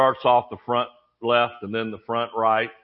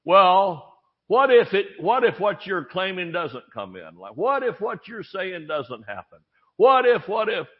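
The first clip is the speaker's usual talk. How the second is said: higher-pitched imitation of worried thoughts; acted-out nagging thoughts, pitched up; voice of nagging doubt; 4 semitones higher than usual. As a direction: needle with each what-if, hitting the first words hard. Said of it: "the thought was".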